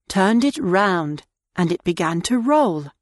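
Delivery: ordinary delivery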